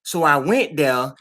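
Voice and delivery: slow, staged acting delivery. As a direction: act it out slowly. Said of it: "Listen to my acting right now".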